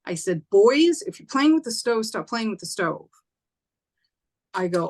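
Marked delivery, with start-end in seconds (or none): 0.5-3.1 stern warning. Retold or imitated. Warning unseen boys, voice raised.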